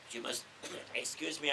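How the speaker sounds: breaking off to cough between words; hoarse chest cough interrupting speech. Real, not acted. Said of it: "a chest infection just at the moment".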